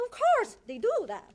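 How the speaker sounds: high, loud scoffing reply; emphatic retort. Retold or imitated. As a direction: fire it back as if it's obvious. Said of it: "I said".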